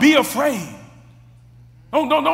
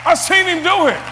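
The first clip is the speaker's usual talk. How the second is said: rising to a shouted, higher climax; preaching at full force; 4 semitones higher, 4 dB louder than usual. Acted. Preacher shouting to congregation about God stepping in, fervent preaching. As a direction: drive it home to the congregation, shouting.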